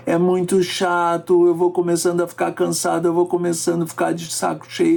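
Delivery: flat, even drone on one pitch; monotone demo. Shown as a demonstration. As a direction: drone like a bored reader. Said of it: "uma pessoa falando assim".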